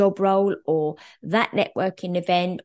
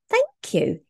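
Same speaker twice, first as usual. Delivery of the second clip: chirpy, delighted "Thank you."; bright high thank you; 13 semitones higher than usual. Retold or imitated. Quoting a cheerful reply.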